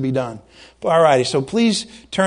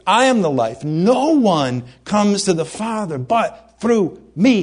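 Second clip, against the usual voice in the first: worked up preaching; 3 semitones higher than usual. Real, not acted. Preacher to his congregation about exclusive truth, mildly worked up. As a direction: press every word like it's urgent, lightly raised. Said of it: "I'm a little worked up".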